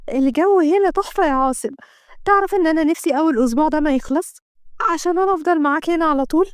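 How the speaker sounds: lightly voiced cheerful girlfriend; happy young woman. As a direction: gush about the trip. Kenda enjoying the trip.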